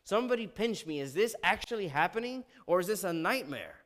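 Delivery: mildly hammed-up disbelief; imitating someone who can't believe what he hears; baffled, shocked king. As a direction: play a stunned king, lightly. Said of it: "the king is baffled. He is shocked".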